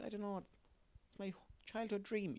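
high, slow put-on child voice; whiny kid voice. Kid pleading with his dad in a high, slow child voice. Acted kid asking for mascot money.

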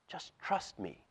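serpent's whisper. Acted. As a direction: murmur it like a sly snake. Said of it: "the serpent whispered".

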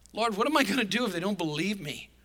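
mildly anxious appeal, lightly acted; uptight Moses. Moses asking the Lord for help, mock uptight. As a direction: plead as if out of your depth. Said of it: "feeling incredibly inadequate".

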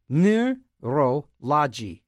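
neurology drawn out very slowly, each syllable stretched; slow careful try. Shown as a demonstration. Still stuck on the word, dragging out neurology slowly. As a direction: sound out neurology slowly, like a tongue twister. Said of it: "Can't say neurolo".

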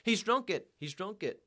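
high scream, loud then dropping back; narrator's restrained scream of outrage; screamed accusation. A narrator's reading. Poor woman accusing her drunken husband, screamed. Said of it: "the poor woman screamed".

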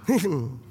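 short low chuckle; a brief laugh put on as an example; demonstrated laugh. Shown as a demonstration. Preacher showing men free laughter, demonstrated chuckle. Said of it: "Free laughter".

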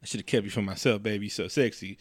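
low, soft, intimate murmur; mock whisper. Odin sweet-talking his hammer, mock whisper. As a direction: confide it quietly like sweet talk, played for laughs. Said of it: "he whispers to the hammer".

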